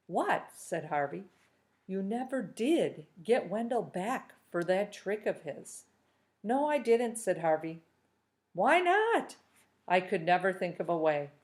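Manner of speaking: steady read-aloud storytelling voice; story narration. A narrator's reading. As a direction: read the chapter to the class like a storyteller. Teacher reads novel aloud to class.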